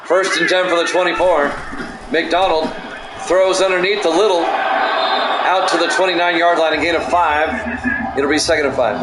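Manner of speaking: steady sportscaster call of each play. Acted. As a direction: call the drive like a broadcaster. Play-by-play of game.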